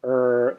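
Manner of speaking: er with the jaw tight and tongue bunched back; a closed-jaw English er. Shown as a demonstration. Teacher showing the English r to avoid. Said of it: "restricting the er".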